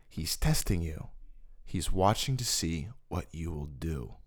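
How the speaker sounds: low, soft voice of God; voice from nowhere. Retold or imitated. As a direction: quote a divine voice, low and hushed. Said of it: "I hear a voice interrupt me".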